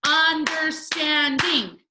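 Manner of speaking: UN-DER-STAND-ING, high, loud and slow; syllable by syllable. Shown as a demonstration. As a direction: punch out each syllable of "Understanding". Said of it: "break it up by the vowel sound".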